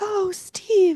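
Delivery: very high, wispy, pleading voice. Imagining a 1920s detective scene where a woman comes in: really high wispy voice. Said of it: "with that really high wispy help me voice".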